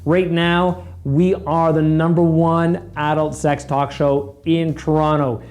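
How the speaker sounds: loud, slow promo voice; ad read. Acted. Host reads a podcast promo to listeners, loud and slow. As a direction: sell the show like a cheesy host.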